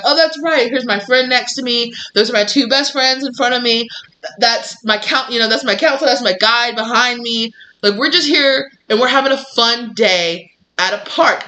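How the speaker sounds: high, bright delighted voice; like a happy kid at a park; excited realization. Retold or imitated. Imagined joyful realization on ride.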